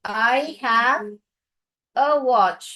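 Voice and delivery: speaking while writing. Shown as a demonstration. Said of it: "मैं लिख के बता रही हूँ".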